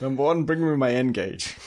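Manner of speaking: slow mock starship captain's order; lightly voiced captain, taking it slowly; Picard. Host as Picard ordering his first officer, mock command. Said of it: "Captain Picard said".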